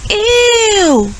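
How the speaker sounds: high grossed-out ew; disgusted snort. Acted. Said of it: "Gorilla snorted".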